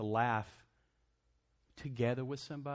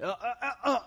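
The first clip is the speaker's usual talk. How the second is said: high, louder mock tut-tut with a laugh; spouse's warning; 13 semitones higher, 9 dB louder than usual. Preacher imitating a spouse's reproach, high mock tut-tutting. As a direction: play the spouse catching you out, half laughing. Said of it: "hear your spouse saying".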